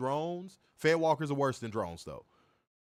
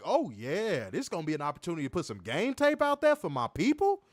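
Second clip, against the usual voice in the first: eager, relishing the chance; retold excitement; 2 semitones higher than usual. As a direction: recall your excitement, punching the last words. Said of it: "I was excited".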